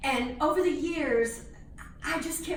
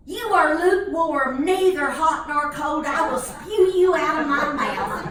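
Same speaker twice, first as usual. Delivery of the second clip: mock preachy fish; 6 dB louder than usual. Fish preaches to swallowed fella.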